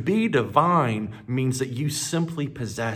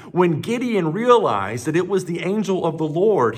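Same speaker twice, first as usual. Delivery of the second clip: ordinary talk, nothing marked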